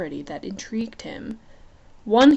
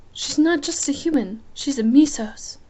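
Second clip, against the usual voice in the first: put-on higher young queen voice; 5 semitones higher than usual. Isabel voice.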